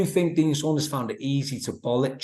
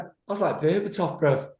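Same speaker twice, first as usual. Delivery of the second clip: high cocky boast; 6 semitones higher than usual. Retold or imitated. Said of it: "and he went".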